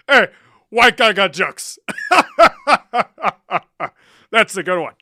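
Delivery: high, loud laughing through the words; cackling at a viewer's joke; mocking laughter. Real, not acted. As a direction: laugh at them while you talk.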